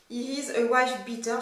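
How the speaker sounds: English words read slowly in a French accent. Shown as a demonstration. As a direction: read the English headline carefully in your own French accent. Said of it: "Je suis désolée pour mon accent anglais".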